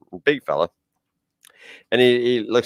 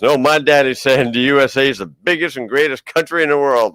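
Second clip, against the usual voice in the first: raised, mildly indignant retelling; mad Texan retort. Retold or imitated. Comedian quotes a mad Texan about his daddy, mildly indignant. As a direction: imitate an offended Texan insisting he's right. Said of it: "And he got mad".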